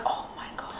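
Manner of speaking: breathless whispered awe; awed whisper. Retold or imitated. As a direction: whisper it in amazement.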